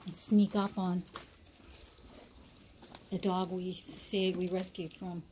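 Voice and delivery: quiet, sneaking-up voice; talking low. Real, not acted. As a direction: keep your voice down while sneaking up. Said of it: "I'm trying to talk low".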